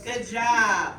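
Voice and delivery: loud, bright praise. Real, not acted. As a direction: cheer them on loudly. Teacher praising loudly.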